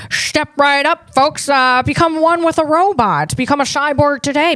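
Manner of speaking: put-on old-time carnival barker pitch; vaudeville voice. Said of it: "that's a vaudeville voice approach".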